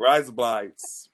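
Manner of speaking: put-on slow try at an Australian accent; badly faked Australian accent; attempted Australian accent. Showing off to co-hosts, attempted Australian accent. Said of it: "You hear my accent?".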